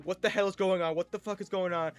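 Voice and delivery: acting out startled confusion; alarmed bewilderment. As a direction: demand to know what just happened. Acts out waking confused on floor.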